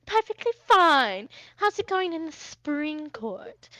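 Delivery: high, punchy, airy comeback; haughty retort. Acted. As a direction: stretch it out with lofty poise. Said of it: "flutters his fan and he goes".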